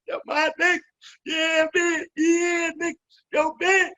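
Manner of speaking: high, delighted cheer of recognition; happy excitement. Retold or imitated. Men hearing their names on the mic, high happy excitement. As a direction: imitate a thrilled fan calling out high. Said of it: "they get all happy and shit".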